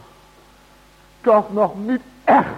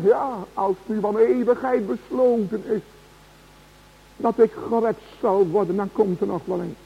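softer, fading into a quiet, idle muse; mock reasoning; 3 semitones lower, 4 dB quieter than usual. Preacher mimics a drowning man calmly reasoning. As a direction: shrug it off as if there's no hurry. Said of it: "dat hij dan gaat redeneren".

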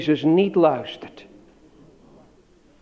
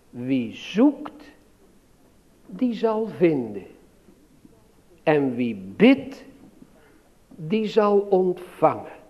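scripture quote; 4 dB quieter, slower than usual. Shown as a demonstration. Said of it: "in de Bijbel staat".

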